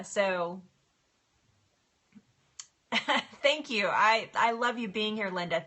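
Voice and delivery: ordinary delivery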